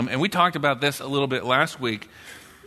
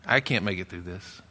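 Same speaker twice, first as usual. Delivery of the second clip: voiced worrier; 4 semitones lower, 4 dB quieter than usual. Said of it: "And the worrier says".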